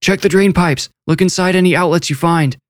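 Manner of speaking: high, carrying yell to the searchers; father shouting orders to the search party. A narrator's reading. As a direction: call out to the whole crowd with new hope. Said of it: "he yelled".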